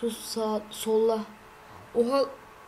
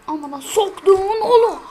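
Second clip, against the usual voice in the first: loud, high curse through laughter; laughing off a bad moment; 8 semitones higher, 11 dB louder than usual. Real, not acted.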